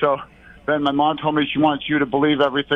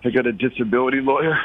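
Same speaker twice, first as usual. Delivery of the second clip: breathless caller on phone; out of breath; 4 semitones lower than usual. Real, not acted. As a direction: talk while panting. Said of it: "why do you sound like you're out of breath".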